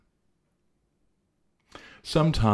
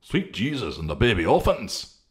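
crying out; 5 semitones higher than usual. Acted. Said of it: "cried Integrity".

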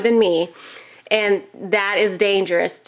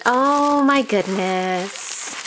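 amazed gasp; 2 semitones higher, much slower than usual. Real, not acted. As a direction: let the wonder catch your breath. Opening the gift, delighted surprise.

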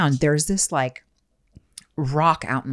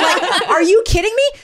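high, slow incredulous protest; mock outrage; 14 semitones higher, 4 dB louder, slower than usual. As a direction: draw it out in laughing disbelief. Mock outrage at imagined lost ring.

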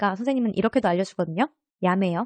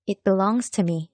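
slow model sentence; much slower than usual. Shown as a demonstration. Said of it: "내 거야 하면 어떻게 될까요".

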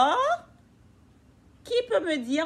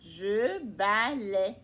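slow repeat; 4 semitones lower, much slower than usual. Shown as a demonstration. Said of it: "c'est la fille qui dit je balaie".

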